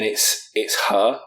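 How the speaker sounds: whispered spooky reveal. Acted. Storyteller revealing the stowaway, a whisper. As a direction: hush it like a scary secret.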